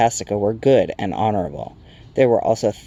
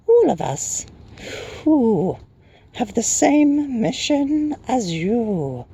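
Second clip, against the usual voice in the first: very high, drawn-out airy creature; hooting Night Hob; 14 semitones higher, much slower than usual. A narrator's reading. Night creature explaining their shared mission, high slow hoot. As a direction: hoot it slowly, pitched way up.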